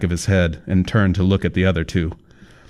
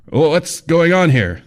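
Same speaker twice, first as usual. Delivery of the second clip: slow, higher, puffed-up hero voice; trying to sound heroic; 9 semitones higher, 3 dB louder, slower than usual. Acted. Kyle trying to sound heroic to the thugs. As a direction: put on a brave hero act. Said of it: "tried to sound heroic".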